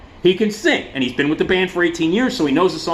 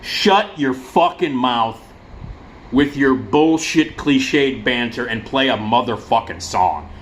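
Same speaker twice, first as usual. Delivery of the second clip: exasperated retort; 2 semitones lower, slower than usual. Retold or imitated. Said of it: "I was like".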